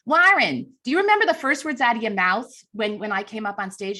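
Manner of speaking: the corrected take, leaning Chicago; Chicago accent. Retold or imitated. Ann Landers quizzes the dad in a Chicago accent. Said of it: "She was, like, from Chicago".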